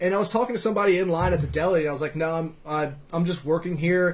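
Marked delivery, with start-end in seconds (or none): none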